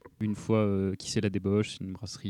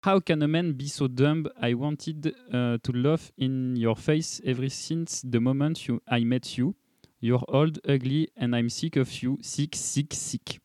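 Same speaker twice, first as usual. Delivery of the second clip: reads the English poem aloud in a French-accented attempt at English; best English accent; slower than usual. Shown as a demonstration. Reading the beer label poem to podcast friends, in French-accented English. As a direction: give the English lines your best English accent, as a Frenchman would. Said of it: "ton plus bel accent anglais".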